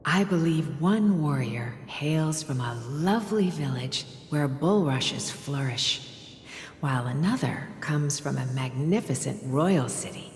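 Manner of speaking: hushed storytelling voice. Acted. Mother telling bedtime tale.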